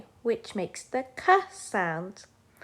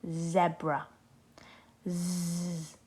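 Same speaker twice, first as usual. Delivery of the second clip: soft zebra; 2 semitones lower, 5 dB quieter, much slower than usual. Shown as a demonstration. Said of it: "Have a go at saying zebra".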